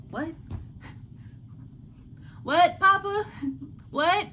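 stunned disbelief. Real, not acted. Shocked reaction to Papa's remark.

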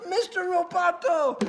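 high, stretched-out chant; mock crowd call-back; imitated crowd response. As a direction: answer like an arena of fans. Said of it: "And the crowd goes".

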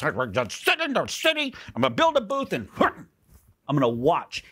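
high-pitched mock sulk; pouting Jonah. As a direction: whine it high like a pouting child. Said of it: "and he pouts".

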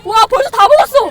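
can't believe how fast; amazed. Real, not acted. Winner finishes the bingsu.

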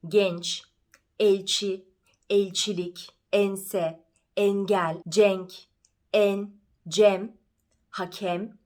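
"Genç", "elçi", "ense" with a narrow closed E; closed front E, lips spread; closed E words. Shown as a demonstration. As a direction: jaw shut on the E of "pencere", "tencere". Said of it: "Başka kapalı E'ler neler".

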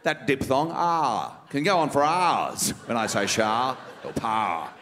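a lightly voiced smug, refined politician; Malcolm Turnbull impression. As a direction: savour every word like a self-satisfied rich man. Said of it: "Malcolm Turnbull impersonation".

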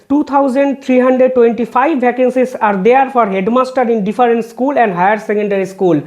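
reading a court order word by word, very slow; slow, measured legal read-out; slow formal reading. Acted. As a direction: spell out each figure deliberately for the record. Reads vacancy figures from judgment.

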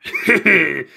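greedy chuckle. Acted. Scheming about the cake.

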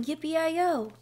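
lightly hollered cowboy call; quoted cowboy shout. A narrator's reading. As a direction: imitate a distant cowboy's cry. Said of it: "somebody outside shouting".

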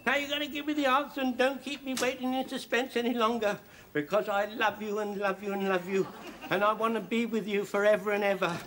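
high, eager sweet-talk; gushing lover. Acted. Old soldier gushing down the phone to his sweetheart, high and eager. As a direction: pour your heart out breathlessly.

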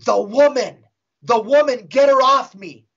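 hammed-up possessed outcry; demon's voice. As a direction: imitate a tormented demon pleading. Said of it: "or the demon said".

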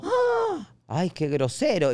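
sharp high gasp, then mock offense; offended gasp. Locals mocking his blunt request with high gasp. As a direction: play it scandalized. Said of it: "y lo toman como".

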